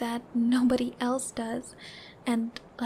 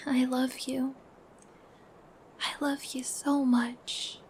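tender whisper. Acted. Girlfriend cuddling boyfriend, whispered love. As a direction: breathe it into his ear.

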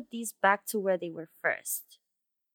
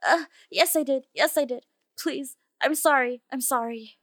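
high, loud, hurried confession; flustered pleading; 4 semitones higher, 5 dB louder than usual. Acted. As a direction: give in and beg forgiveness. Gives in, confesses and begs.

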